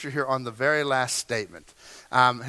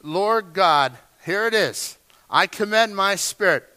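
louder, urgent plea to God; crying out; 4 dB louder than usual. Retold or imitated. Jesus crying out from the cross, a raised plea. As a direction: call out to God with force. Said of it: "he's crying out".

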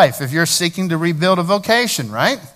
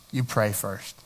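softly emphatic; 7 semitones lower, 8 dB quieter, slower than usual. Shown as a demonstration. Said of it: "repeated for emphasis".

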